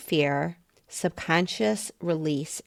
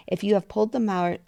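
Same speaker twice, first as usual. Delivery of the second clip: rushed, higher read-aloud; racing ahead of yourself; talking too fast; 4 semitones higher, faster than usual. Real, not acted. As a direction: hurry through the reading and trip up. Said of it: "I'm talking too fast".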